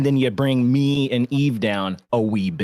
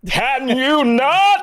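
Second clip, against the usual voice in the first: exasperated; 12 semitones higher, 7 dB louder, much slower than usual. Real, not acted. Annoyed at loud audio.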